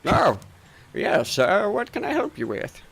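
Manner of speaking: startled shopkeeper gathering himself to serve; doddery shopkeeper, startled. Acted. Shopkeeper noticing customers in his shop, flustered and eager to help.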